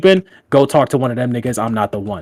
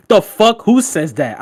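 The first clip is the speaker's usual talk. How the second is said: high, loud mock outrage; incredulous retold roast; friend losing it; 8 semitones higher, 3 dB louder, slower than usual. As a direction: imitate an appalled friend's outburst. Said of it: "my nigga lost it".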